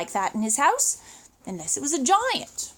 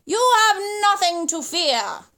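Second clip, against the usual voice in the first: pelican cries out; 4 semitones higher than usual. Acted. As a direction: cry it out warmly. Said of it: "cried the pelican".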